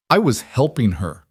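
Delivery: a man close to tears defending himself; voice cracking. Acted. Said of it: "Noah's voice cracked".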